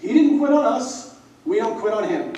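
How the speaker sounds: loud, high retold shout; calling him out. Senior scolds teammate at bench press, loud shout. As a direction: shout it like a captain rallying. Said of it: "he calls me out".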